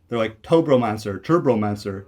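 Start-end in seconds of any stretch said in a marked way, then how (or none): 0.4-1.2 "Tobromancer" with a long O, as in toe; mispronounced name. Retold or imitated. Creator mimics people misreading his online name, mispronounced. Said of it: "no one has ever pronounced my name right". 1.2-2.0 "Turbomancer" opening with TUR, as in turbo; mispronounced name. Retold or imitated. Creator mimics people misreading his online name, mispronounced. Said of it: "no one has ever pronounced my name right".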